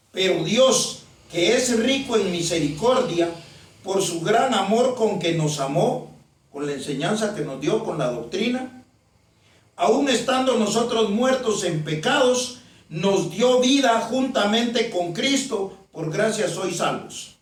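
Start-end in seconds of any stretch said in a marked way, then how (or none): 0.1-6.2 measured Bible reading, each phrase set apart; deliberate scripture reading. Real, not acted. Preacher reads Ephesians to the congregation, deliberately. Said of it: "se lo voy a leer únicamente despacio". 9.8-17.4 slow, deliberate Bible reading; slow scripture reading. Real, not acted. Preacher reads Ephesians to the congregation, slowly. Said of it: "se lo voy a leer únicamente despacio".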